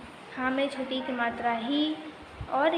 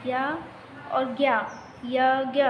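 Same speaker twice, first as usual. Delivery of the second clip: slow, drawn-out यज्ञ, part by part; यज्ञ spelled out slowly; sounded out in parts. Shown as a demonstration. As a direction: stretch out each part of यज्ञ. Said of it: "क्या हो जाएगा ये".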